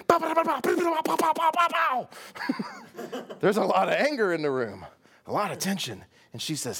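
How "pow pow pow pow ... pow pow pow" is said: high, loud rapid "pow, pow, pow" bursts; machine gun pow. Retold or imitated. Preacher mimicking the tension at the banquet as gunfire. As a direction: imitate gunfire in the room. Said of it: "you'd be like".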